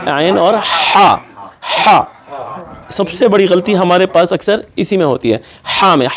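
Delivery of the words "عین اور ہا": عین and ہا drawn out from the mid throat; slow letter demo. Shown as a demonstration. Answering his own question to the class, slow demo. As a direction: slowly sound عین اور ہا. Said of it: "middle part سے کیا آ رہا ہے".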